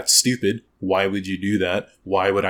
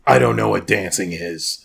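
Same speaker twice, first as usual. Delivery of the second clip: clueless soldier; 5 dB louder than usual. Pretend. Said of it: "And he's like".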